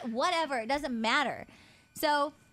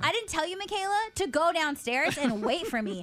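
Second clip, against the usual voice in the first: much higher, slowed, indignant demo; imitating angry tone; 5 semitones higher than usual. Showing how she scolded her sister by full name, high indignant. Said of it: "I was talking to her like this".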